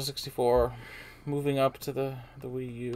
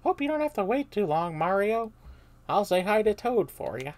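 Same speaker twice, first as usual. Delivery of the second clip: slightly higher cheerful Goomba; girly Goomba voice; 9 semitones higher, 7 dB louder than usual. Acted. Goomba cheerily bids Mario goodbye, lightly higher. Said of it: "sound like a girl".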